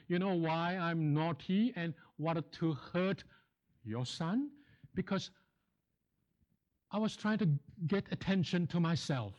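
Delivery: a hint of a sheepish schoolboy confessing; pretend naughty boy. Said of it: "let's pretend he said this to me".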